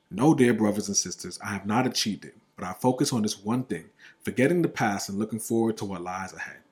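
deliberate, emphatic Bible reading; scripture reading. Real, not acted. Podcaster reading Philippians to listeners, emphatic scripture reading. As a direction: read the verse out firmly and evenly.

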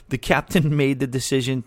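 laughing through the words; can't hold back a laugh about the plague; giggling while reporting the news. Real, not acted. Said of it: "I don't know why I'm laughing".

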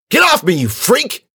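high, loud revolted outburst; disgusted yell. A narrator's reading. Dweez pulls his arm from the girl, disgusted. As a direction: yell it, shoving them off.

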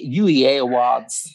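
slow put-on American accent. Shown as a demonstration. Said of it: "in your best American accent".

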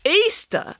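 high, grand proclamation; high-pitched, ceremonious announcement; announcing. A narrator's reading. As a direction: announce it like a big declaration. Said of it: "announced Nanny Piggins".

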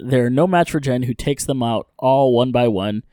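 brisk, animated story-recap read; recap narration. A narrator's reading. Host recapping an episode for listeners, recap narration.

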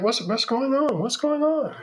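high, rising alarmed voice, climbing as it repeats; mother bursting in, startled and worried; alarmed Rainbow. Retold or imitated. Mother bursting in on the scene, alarmed and high. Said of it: "she's like".

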